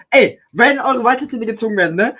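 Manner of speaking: slurred, hard to understand; mumbled through a sore mouth; mumbling. Real, not acted. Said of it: "ich versteh dich nicht".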